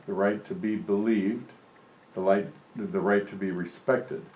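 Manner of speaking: measured read-aloud, each "right" given weight; reading a letter aloud. Acted. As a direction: read it out steadily to the congregation.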